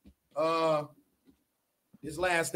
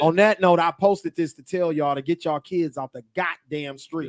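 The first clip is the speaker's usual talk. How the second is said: Doughboy voice; 4 dB louder than usual. Acted. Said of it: "in my Doughboy for Boys in the Hood voice".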